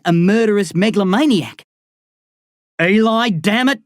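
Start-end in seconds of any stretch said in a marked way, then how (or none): 2.8-3.8 sharp angry yell, higher and louder; an impatient shout at Eli; screamed. Acted. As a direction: yell his name in exasperation. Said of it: "he screams".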